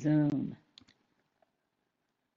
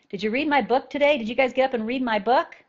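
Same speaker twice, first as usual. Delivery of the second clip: pushy, puffed-up author fishing for praise, higher and louder; mock egotistic author, higher and louder, rising to a loud peak; mock self-important author; 6 semitones higher, 6 dB louder, faster than usual. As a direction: ham up a vain writer demanding you read his book. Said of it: "have you guys ever heard me talk like that".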